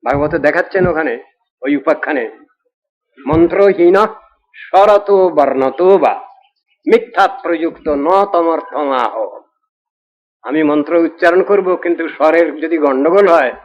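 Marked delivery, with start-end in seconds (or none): 3.2-9.1 slow scripture recitation. Acted. Quoting Sanskrit verse from Bhagavata.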